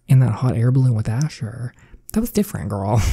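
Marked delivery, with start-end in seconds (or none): 2.1-3.0 put-on sassy "That was different, girl". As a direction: tease her back with a flip of attitude. Teasing friend's remark.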